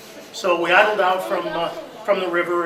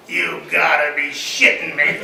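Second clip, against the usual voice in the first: slow, laughing mock disbelief; quoting a stunned co-driver through laughter; 2 semitones lower, 4 dB louder, slower than usual. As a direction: imitate his stunned, amused reaction. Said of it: "looks at me and he goes".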